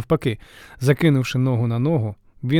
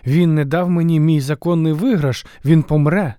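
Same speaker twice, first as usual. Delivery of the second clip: louder, grim vow of revenge; stubborn threat; 4 semitones higher, 5 dB louder than usual. Acted. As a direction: insist he will die. Heracles quoted, stubborn threat.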